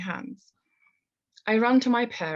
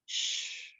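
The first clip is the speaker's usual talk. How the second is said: hushing; 9 dB quieter than usual. A narrator's reading. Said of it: "my mum shouting".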